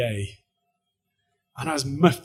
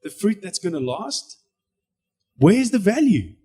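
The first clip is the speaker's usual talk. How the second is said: voice of God; 5 semitones higher, slower than usual. Retold or imitated. God questioning the speaker, slow and gentle. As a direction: coax him to see. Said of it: "God's going".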